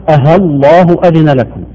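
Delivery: أها الله with a clear h before it; overdone easing. Shown as a demonstration. Demonstrating the exaggerated reading. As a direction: read أها الله أذن لكم with a ha sound. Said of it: "مبالغة في نطق التسهيل".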